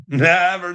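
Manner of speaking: NEVER drawn out, high and loud; big emphatic high-pitched "Never". Real, not acted. Emphatically denies she follows through.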